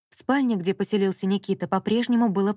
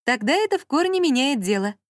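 higher mocking repeat; 6 semitones higher, 3 dB louder than usual. A narrator's reading. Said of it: "раздалось из-за неё".

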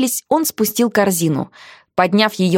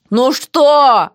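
gloomy reply; 5 semitones higher, 4 dB louder than usual. Acted. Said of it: "мрачно отозвалась я".

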